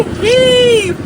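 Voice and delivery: shouted work call. Real, not acted. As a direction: bark it out to the crew. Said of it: "I'm gonna say heave".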